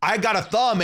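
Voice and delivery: loud, high mock wrestler outburst; big hammed-up wild heel voice; Umaga. Host imitating a big-personality wrestler, hammed-up outburst. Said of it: "Umaga was".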